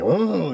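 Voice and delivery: rising mock-menacing "ooh"; puffed-up "ooh". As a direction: imitate puffing yourself up. Imitates puffing up like blowfish.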